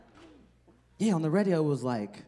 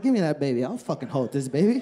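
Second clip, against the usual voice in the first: put-on drunk grab for baby; 5 dB louder than usual. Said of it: "Be like".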